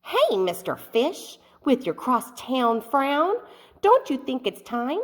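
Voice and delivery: lightly voiced, upbeat clam coaxing a friend; a hint of a chirpy clam; cheery clam. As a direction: nudge the sad fish to smile. Clam's cheerful advice.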